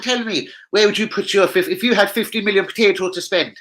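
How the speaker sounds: put-on high voice. Streamer asking viewers in a silly high put-on voice. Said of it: "gonna speak totally normal".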